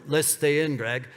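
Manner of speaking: imitating a German tentmate's accent. Tentmate Robert declines to get out, in a German accent. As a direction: put on a light German accent. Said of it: "That wasn't a German accent".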